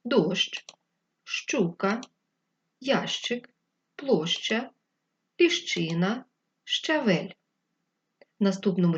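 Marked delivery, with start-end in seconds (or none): 0.0-7.3 Дощ, щука, ящик, площа, ліщина, щавель each said separately with a clear щ; reading aloud clearly. Shown as a demonstration. Teacher reading the word list to the children, each щ clear. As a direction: say each word slowly, leaning on the щ. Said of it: "Давайте прочитаємо".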